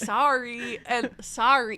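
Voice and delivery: "Sorry and sorry" drawn out slowly, comparing the vowel; trying out sorry. Shown as a demonstration. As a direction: say "sorry" slowly twice, testing the o. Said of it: "How do they say it?".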